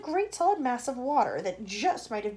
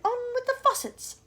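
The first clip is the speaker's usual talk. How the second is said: shout; 13 semitones higher, 4 dB louder than usual. Acted. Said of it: "it shouted".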